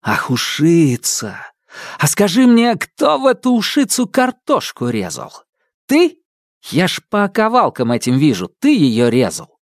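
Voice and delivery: put-on annoyed young inventor, voice climbing high; indignant brother. Brother scolds robot over soup.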